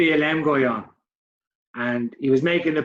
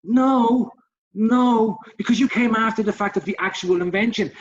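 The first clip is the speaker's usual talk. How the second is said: mock retort; 6 semitones higher than usual. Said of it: "And it's like".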